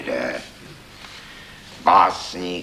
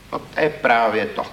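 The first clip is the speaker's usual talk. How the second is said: hard; 4 semitones higher than usual. Acted. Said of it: "řekl jsem tvrdě".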